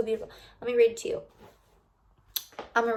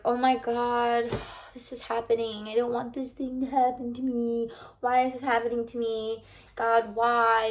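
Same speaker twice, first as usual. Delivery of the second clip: whiny complaint. Retold or imitated. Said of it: "we always say".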